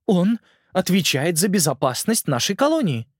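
lightly voiced uncertain queen; a queen admitting fault, unsure; hesitant queen voice. Ant Queen speaks.

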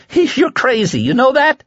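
very high, near-laughing hysteria; hysterical. Acted. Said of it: "Larry uttered a hysterical laugh".

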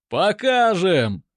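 loud, slow group shout; хором. A narrator's reading. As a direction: bellow back in unison. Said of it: "дружно откликнулись красные". (дружный громкий выкрик)

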